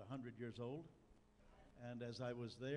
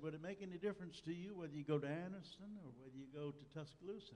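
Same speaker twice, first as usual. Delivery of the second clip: imitated Southern accent, pitched up; higher put-on Southern accent; Fred Vines; 4 semitones higher, faster than usual. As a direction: play an Alabama brother asking in a Southern lilt. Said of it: "in his southern accent".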